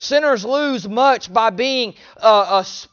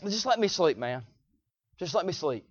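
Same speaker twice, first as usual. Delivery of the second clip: much softer, drowsy mumbled protest; sleepy pleading; 5 semitones lower, 11 dB quieter than usual. Acted. Spiritual sleeper asking to be left alone, soft and drowsy. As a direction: drop the volume like someone refusing to wake. Voicing sinners who want to sleep.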